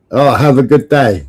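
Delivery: mimicking a supposed American sign-off; lightly put-on American accent. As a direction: repeat it in a mock American accent. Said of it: "Was that an American accent?".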